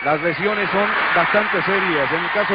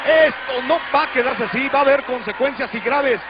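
high, fast alarmed live report; excited reporting; 6 semitones higher than usual. Real, not acted. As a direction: report the chaos urgently. Reporter alarmed by backstage brawl.

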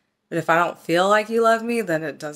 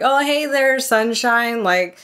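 mock-sweet boyfriend; 3 semitones higher than usual. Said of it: "he's like".

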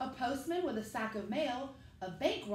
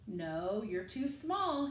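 lower, firm dad voice; a lightly voiced father saying no kindly but firmly; dad refusing; 3 semitones lower, slower than usual.

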